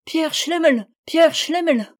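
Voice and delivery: high, eager calling out; joyful call. A narrator's reading. Narrator chasing the tall man, calling out joyfully. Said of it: "m'écriai-je, tout joyeux".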